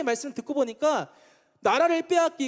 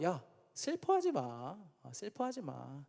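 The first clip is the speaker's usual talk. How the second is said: slow, low, soft consoling murmur; mock consoling; 5 semitones lower, 11 dB quieter, slower than usual. Friend beside someone who is sad, acted slow consoling.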